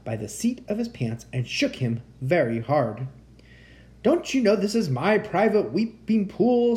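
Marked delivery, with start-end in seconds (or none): 4.0-6.8 loud, raised, indignant scolding; angry creature. A narrator's reading. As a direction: scold an intruder angrily. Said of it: "said a deep, angry voice".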